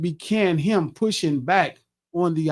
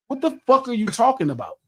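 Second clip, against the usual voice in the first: retold frustration; 7 semitones higher than usual. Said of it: "I start to lose it".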